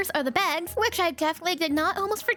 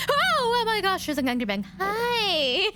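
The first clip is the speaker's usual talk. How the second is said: startled; 3 semitones higher than usual. Real, not acted. Meets an Enderman.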